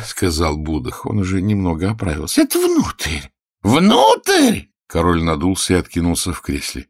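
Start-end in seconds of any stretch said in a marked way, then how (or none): 2.4-4.7 high, loud capricious king; whiny king. Acted. King inspecting the healer's knees and teeth, high and loud. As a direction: play a petty tyrant poking at his healer.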